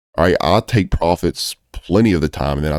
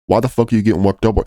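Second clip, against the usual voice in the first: higher, faster, pushing it home; exasperated repeat; 5 semitones higher, faster than usual. Real, not acted. Trading coach scolds greedy traders, exasperated and faster. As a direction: fire the question back at them harder. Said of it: "So why the fuck are you getting worked up over it?".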